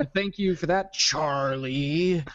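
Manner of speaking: slow disdainful drawl. Thanking a co-host in jest: mock contempt and disdain. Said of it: "He says with contempt and disdain".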